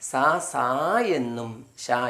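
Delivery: സാ, സാ and ഷാ said slowly and clearly; teacher sounding out സാ and ഷാ; slow sound demo. Shown as a demonstration. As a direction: model സാ then ഷാ slowly. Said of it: "എസ് എ വന്നു കഴിഞ്ഞാൽ".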